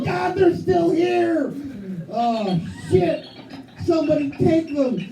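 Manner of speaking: slow, high, pleading mock panic; mock morning panic. Comic dad waking to find his kids still there, begging in mock panic. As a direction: plead for someone to take the kids. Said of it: "Every morning I wake up and go".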